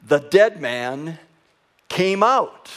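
slow and loud, pause before the climax; eyewitness proclamation. Acted. Eyewitnesses testifying to the raising of Lazarus, proclaimed loudly. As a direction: build to a high, ringing announcement. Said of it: "this is what they would say".

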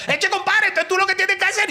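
high, eager voice of a local explaining; chirpy Caribbean Colombian local; coastal local man. Retold or imitated. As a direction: play the helpful village guy.

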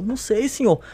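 soft, cowed answer to an instructor; small, frightened recruit's voice, acted out; imitated nervous reply. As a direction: answer timidly, under your voice. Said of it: "as pernas tremendo".

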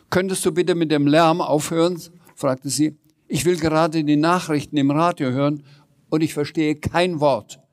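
a grumpy landlady complaining about the noise; irritated neighbour at the door; annoyed landlady. Acted.

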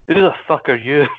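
hammed-up Scottish accent on request; exaggerated Scottish delivery; broad Scottish accent. Shown as a demonstration. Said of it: "can you say that in your most Scottish accent".

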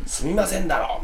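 少し高い声で言い直させる口まね; retold angry correction. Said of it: "余計向こうに火つけるというか". (怒った相手を軽くまねて)

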